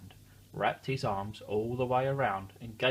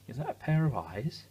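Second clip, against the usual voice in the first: curious; 3 semitones higher than usual. Real, not acted. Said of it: "repeated question".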